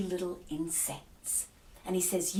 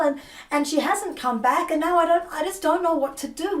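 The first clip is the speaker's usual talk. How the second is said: rising from pleading to frantic, higher and louder; desperate pleading; 6 semitones higher, 8 dB louder than usual. Acted. Servant begging Enki to save Inanna, frantic pleading. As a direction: beg for help, voice climbing into panic. Ninshubur begs Enki for help.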